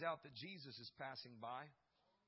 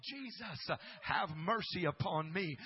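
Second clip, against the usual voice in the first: louder pleading cry; screaming plea; 7 dB louder than usual. Acted. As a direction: beg at the top of your voice. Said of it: "somebody was screaming like a madman".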